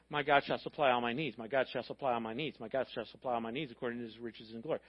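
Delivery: low, repeated recital of a memorized verse; verse recitation. Acted. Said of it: "And we say".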